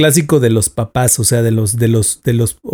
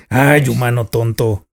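slow, playful dog voice; voz de perro; 2 semitones lower than usual. Shown as a demonstration. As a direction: voice the dog as a silly pet. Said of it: "Mi voz de perro es más o menos así". (voz de perro juguetona)

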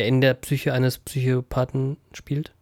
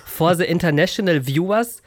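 put-on British accent; 2 semitones higher than usual. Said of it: "we are very British now".

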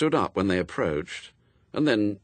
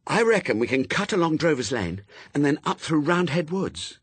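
put-on higher young girl, keen and sure; a light girl voice proposing a shortcut; lightly voiced girl Pepper; 7 semitones higher than usual. A narrator's reading. Pepper telling Adam a shortcut, lightly voiced girl.

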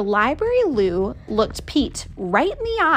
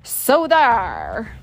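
scary so there. Acted. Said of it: "let loose with a scary".

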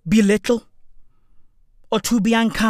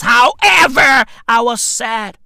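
loud mock grief; 6 dB louder than usual.

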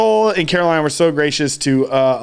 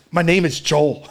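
punchline told through a laugh; amused, laugh-laced quote. Real, not acted. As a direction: barely hold it together.

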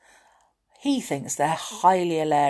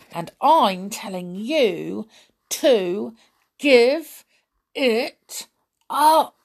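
insisting, builds to louder; firm, rising to loud; 3 semitones higher, 4 dB louder, slower than usual. Acted. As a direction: push harder with each word. Sully insists, rising to a shout.

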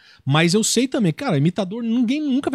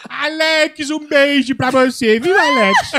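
higher, louder put-on comedian voice; Igor Guimarães impression; 7 semitones higher, 7 dB louder, slower than usual. Comedian doing a friend's voice for the show, high and loud. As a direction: greet the fans as the comedian. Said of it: "Vou chamar o Igor aqui e ele imita".

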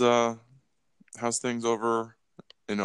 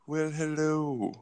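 failed villain voice; 4 semitones higher, 5 dB quieter, slower than usual. Acted. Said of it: "I can't even do it again".

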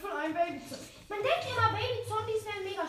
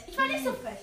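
lightly higher mock baby voice; 4 semitones higher than usual. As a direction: playfully pretend to be the cheeky baby zombie. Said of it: "Ich bin das Baby". (gespielte leichte Babystimme)

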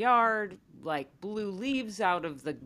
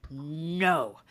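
stern no; 3 semitones lower than usual. Retold or imitated. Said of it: "sternly say".

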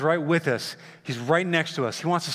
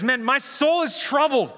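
troubled Jesus; 10 semitones higher than usual. Acted. Preacher voices troubled Jesus.

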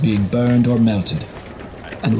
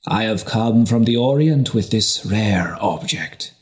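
showman merchant, grand and mysterious; lightly voiced merchant putting on a show; voice to inspire wonder. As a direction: unveil it like a treasure to a rapt crowd. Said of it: "with a voice to inspire wonder".

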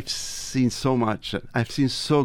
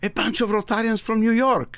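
laughing; 9 semitones higher than usual. Real, not acted. Laughs at the surprise.

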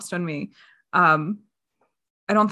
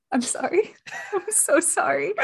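sorry through giggles; laughing at her own critique, apologising; laughing apology; 8 semitones higher than usual. Real, not acted. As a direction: apologise while cracking up.

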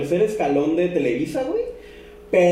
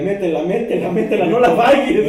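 mock sports commentary; 3 semitones higher, 4 dB louder than usual. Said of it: "De que era de".

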